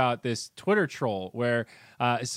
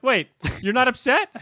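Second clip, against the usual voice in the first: high-pitched baffled imitation; mock surprise; 9 semitones higher, 4 dB louder than usual. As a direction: imitate a troll taken aback, pitched up. Voicing trolls baffled by the reply.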